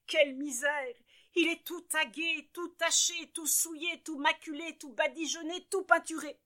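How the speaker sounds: a prim mother scandalized by her piglet; fussy mother voice. A narrator's reading. Mother sees dirty piglet, high fussy lament. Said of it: "reprend madame Propre".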